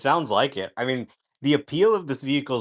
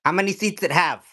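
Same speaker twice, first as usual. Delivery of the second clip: high-pitched mock Asian grandma; imitating Asian grandma; 8 semitones higher, 4 dB louder than usual. Grandma questioning the Cybertruck driver, in a high imitated voice. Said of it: "this Asian grandma".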